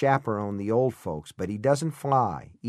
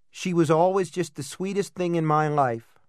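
choked, muffled and tight; 6 semitones higher, 3 dB louder than usual. A narrator's reading. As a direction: speak as if through a cloth, grieving. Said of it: "in a strange, muffled voice".

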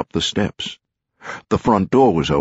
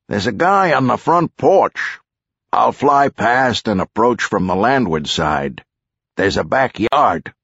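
raised, businesslike helicopter pilot; lightly voiced chopper pilot; 5 semitones higher than usual. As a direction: pilot reporting to passengers.

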